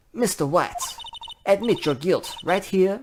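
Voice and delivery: put-on Mia with an accidental country western accent; a slip into a country western twang on the accusation. Mia accuses Mister White with a country western twang. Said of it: "I gave her a twang".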